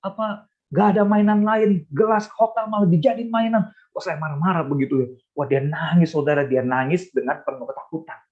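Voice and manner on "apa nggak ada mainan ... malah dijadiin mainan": high-pitched mock telling-off; retold angry scolding. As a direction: imitate an indignant parent scolding a child. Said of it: "Saya marah dan saya memarahi dia".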